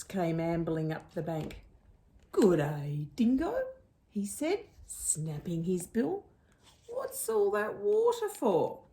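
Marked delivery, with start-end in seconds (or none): 2.3-3.5 breathy whispered greeting from a small creature; a whispered hello from the riverbank; platypus voice. Acted. 6.9-8.8 much higher, piping critter voice; a high little platypus asking; curious platypus. Acted.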